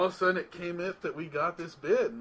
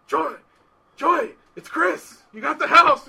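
high, loud excited call; high-pitched eager holler; 10 semitones higher, 11 dB louder, slower than usual. Retold or imitated. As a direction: call out good news at the door. Calling to client at door.

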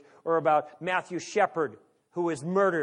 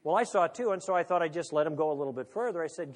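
normal talking voice

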